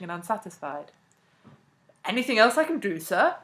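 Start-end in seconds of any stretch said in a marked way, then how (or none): 2.0-3.4 embarrassed English politeness, pitched up; louder, awkwardly courteous offer; absurd politeness. A narrator's reading. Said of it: "with the absurd politeness of an Englishman".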